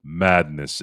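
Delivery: slow, drawn-out imitation of a deep voice; slow mock PA announcement; deep announcer voice. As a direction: mimic the stadium announcer slowly. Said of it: "in that deep voice of his".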